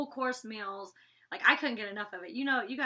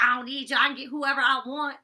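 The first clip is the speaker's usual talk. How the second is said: mock arrogant; 6 dB louder than usual. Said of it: "'cause I don't talk like that".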